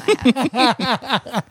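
shrill voice. Shown as a demonstration. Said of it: "everything ends with a question".

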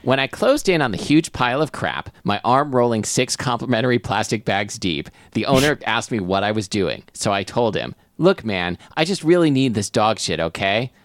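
measured first-person narrator reading; narrating a comic tale; story narration. Acted. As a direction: read the story aloud. Reads story aloud.

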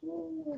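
high, soft drawn-out ooh, imitating a kung fu master; a mock martial-arts ooh, soft and high; Bruce Lee ooh. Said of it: "he's going".

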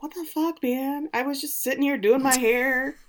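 baffled maid. Retold or imitated. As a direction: act startled and put out. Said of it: "Rose is like".

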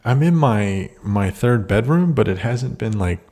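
echoey empty room; talking in a bare echoing room; big hall echo. Real, not acted. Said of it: "You sound pretty echoey".

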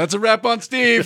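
high, called-out wrap announcement; playful ceremonial call; mock set announcement. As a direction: pretend to announce it to the crew.

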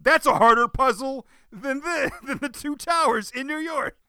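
high-pitched incredulous protest, laughing through it; exasperated rant. Retold or imitated. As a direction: argue with the screen in a high voice. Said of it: "I was nearly screaming at the screen".

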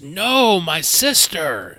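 high, drawn-out anguished scream in character; screamed cry. Acted. Game master voicing a hag whose sister was killed, screamed cry. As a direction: wail it out loud as the hag. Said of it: "and she screams".

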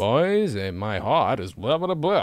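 hammed-up, drawn-out Brooklyn imitation; Brooklyn accent. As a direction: mimic a thick Brooklyn accent. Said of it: "His Brooklyn accent comes out".

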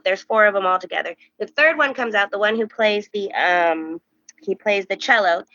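usual speaking voice

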